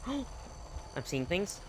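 slow, woozy drugged voice; dazed and slow. Pretend. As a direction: drift through it slowly, dazed. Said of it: "Oh, I got gassed".

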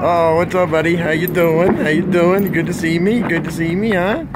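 high and loud, gushing at the dog; excited pet voice. Real, not acted. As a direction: greet the puppy like a long-lost friend.

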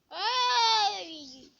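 high, loud sudden Ay; startled real yelp; sharp yelp. Real, not acted. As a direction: yelp as if caught off guard. Sudden reaction in game.

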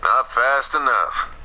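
cowboy drawl. Acted. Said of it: "stop talking like a cowboy".

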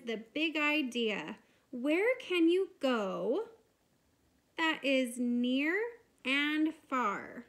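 teacher reading a poem aloud. Shown as a demonstration. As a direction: read it as a poem to children. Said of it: "And it says".

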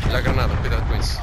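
loud urgent grenade warning; grenade warning yell. Real, not acted.

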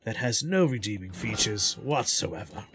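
slow hushed nature documentary narrator; lightly voiced wildlife narrator, slow; Attenborough impression. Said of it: "Can you do an Attenborough impression?".

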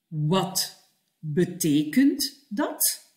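slow, rising question; slow model phrase. Shown as a demonstration. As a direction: say it slowly for the learner to copy. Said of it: "Nu jij". (langzaam voorgezegd)

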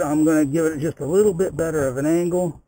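muffled Bluetooth helmet mic; speaking inside a closed helmet. Real, not acted. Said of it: "I'm gonna be wearing a enclosed helmet".

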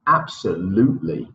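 Absolutely with the long "oo" held; long vowel sound. Shown as a demonstration. Teacher repeating Absolutely for students, long vowel. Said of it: "the absolutely".

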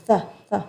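two short "the" sounds with air escaping; airy TH sound. Shown as a demonstration. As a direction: puff out "the the", tongue at the front teeth. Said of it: "ลมออกมานะคะ". (ออกเสียง the the ให้มีลมออกมา)

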